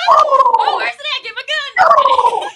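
mock excited. Jokingly grabbing gun.

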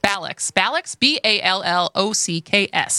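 Ballocks with a flat Wisconsin a; Wisconsin accent. Shown as a demonstration. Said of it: "With my Wisconsin accent".

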